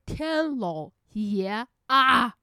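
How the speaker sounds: a slow, drawn-out good heavens; slow, horrified oh my god; dismayed exclamation. Real, not acted. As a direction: stretch it out in horrified awe. Reacting to the scary series.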